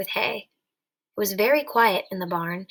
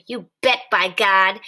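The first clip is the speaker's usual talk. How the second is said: happy cry; 2 semitones lower, 5 dB louder than usual. A narrator's reading. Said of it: "he cried happily".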